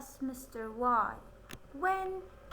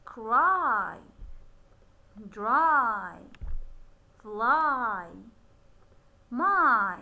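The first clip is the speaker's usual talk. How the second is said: each word called out louder, long I stretched; loud modelled reading; 3 semitones lower, 8 dB louder, much slower than usual. Shown as a demonstration. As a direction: call out each word firmly for the class. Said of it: "will make the long sound of I".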